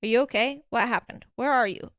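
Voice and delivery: urgent string of short questions; rapid-fire questions. Acted. Danny checking on Jazz through relay, rapid-fire and urgent. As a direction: fire off worried questions one after another. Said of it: "at the rapid-fire questions".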